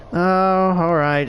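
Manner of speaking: slow, dragging, half-hearted yes; reluctant agreement. Retold or imitated. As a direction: give in wearily, stretched out slow. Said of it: "And he's like".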